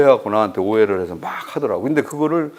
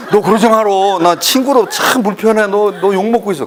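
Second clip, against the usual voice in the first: acted-out telling-off, loud and higher; blunt rebuke; 7 semitones higher, 6 dB louder than usual. Friend finally tells him people are cursing him, acted blunt rebuke. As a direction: scold like a fed-up friend, raised voice.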